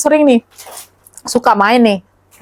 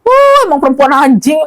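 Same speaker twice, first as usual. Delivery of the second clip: retold cursing; 3 semitones higher, 3 dB louder than usual. Cousin curses Sopi over the wedding refusal, angry. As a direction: imitate an outraged outburst, opening high. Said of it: "Sopi abis dimaki-maki katanya".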